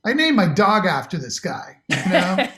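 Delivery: chuckling through the words; talking through real laughter; laughing. Real, not acted. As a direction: laugh while you admit it. Laughs about naming dog.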